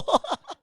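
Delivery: loud, high chuckle; short burst of laughter. Real, not acted. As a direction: break into a quick laugh. 남편 말을 전하고 웃음. (짧고 크게 터지는 웃음)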